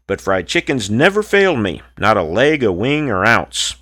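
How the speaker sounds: rhythmic rhymed poem recital; cowboy poetry. Acted. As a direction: recite it like a campfire cowboy poet. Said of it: "This cowboy poem is called".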